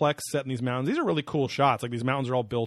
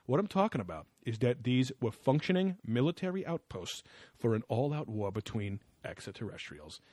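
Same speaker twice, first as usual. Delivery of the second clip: mock smug; 5 dB quieter than usual. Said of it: "like, hubristic and smug".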